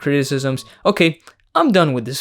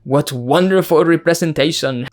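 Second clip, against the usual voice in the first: put-on a light, lazy French accent on "Wow, this movie is so progressive."; mock French accent. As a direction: play a snooty Hollywood snob with a barely-there French accent. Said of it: "That's my French accent".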